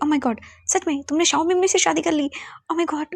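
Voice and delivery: high, excited gasp of joy; thrilled mother can't believe it; delighted disbelief. Acted. Mother thinks son wed her choice. (ख़ुशी से हैरान ऊँची आवाज़)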